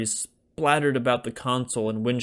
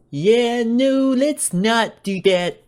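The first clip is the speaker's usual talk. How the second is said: put-on nervous young guy; 12 semitones higher, 7 dB louder, much slower than usual. A narrator's reading. Tommy backs off quickly.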